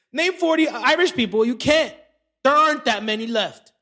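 loose, goofy comedian riff; Theo Von impression. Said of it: "That's my Theo Von impression".

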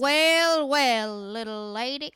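hammed-up Texan drawl, drawn-out wells; broad Southern US accent. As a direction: play a broad Southern American old-timer. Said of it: "And I'm going real south".

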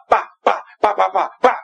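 chanted ba ba to a school clap beat; mimicked clapping. Preacher showing the Nigerian school clap, mimicked clapping. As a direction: tap out the clap rhythm with your voice. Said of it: "Everybody clap for Peter".

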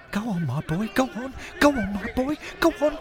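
willing him to score; urging on. Acted. Old man urging his great-great-grandson through on goal, excited.

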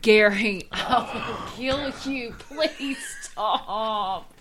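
shouting match. Real, not acted. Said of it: "You're yelling at me".

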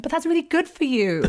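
lightly mimicked snooty schoolgirl; mock patronising girl. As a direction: say it like a condescending classmate. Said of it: "She went".

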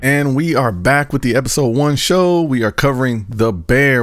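slow, lifted welcome-back announcement; show host intro. Acted. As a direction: bring listeners back from the break, deliberately paced.

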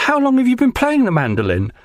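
hammed-up impressed casting director; gushing casting director. Actor imitating the casting director gushing over his tune.

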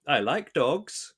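slow, deliberate deadpan delivery of "I like dogs"; stoic villain line. Retold or imitated. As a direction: say it slowly like a stone-faced villain. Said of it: "and he goes".

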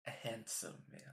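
hesitant, halting compliment; a touch of nervousness; nervous. Acted. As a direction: say it nervously after a long pause. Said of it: "I said nervously".

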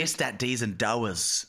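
De Niro impression. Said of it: "in that De Niro".

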